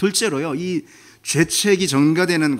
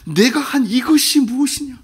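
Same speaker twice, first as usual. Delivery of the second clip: lightly voiced God, higher and questioning; a light touch of God asking, raised pitch; voicing God; 8 semitones higher, 4 dB louder than usual. God questioning the woman, lightly pained. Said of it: "다시 고쳐보면 이런 뜻인 거예요".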